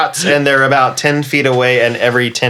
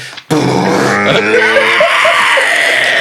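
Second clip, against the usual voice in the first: long mouthed crash noise; crash sound effect; 6 semitones lower than usual. Acted. Game master voices a crashing ship, long mouth noise.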